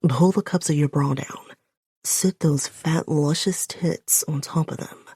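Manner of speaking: a hint of a low, raspy male command; lightly voiced raspy man. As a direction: ease into a rough man's voice, commanding. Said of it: "There's a rasp to his voice now".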